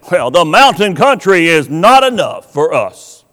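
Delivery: whispered complaint. Retold or imitated. Preacher voicing the tribe's grumbling, whispered. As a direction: breathe it out as a grumble.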